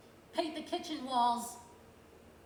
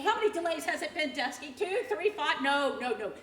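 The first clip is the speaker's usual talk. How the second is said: furious tirade; 3 semitones higher, 5 dB louder than usual. Acted. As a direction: hammer him with each number. Counting delays in rage.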